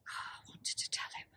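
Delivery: hushed, breath-led confession on a sigh; wistful sigh. Acted. Confessing unspoken love over his photograph, wistful sigh. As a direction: sigh it out softly, almost voiceless.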